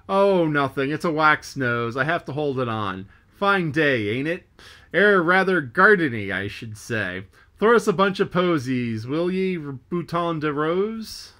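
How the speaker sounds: mock the mate lightly; lightly voiced Stubb ribbing a sailor; teasing sailor.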